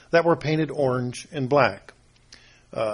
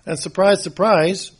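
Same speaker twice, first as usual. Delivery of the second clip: louder, higher, playfully ironic "surprise"; mock surprise; 3 semitones higher, 5 dB louder than usual. Preacher to congregation, joking about an obvious word meaning, ironic surprise. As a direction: tease the congregation with fake astonishment.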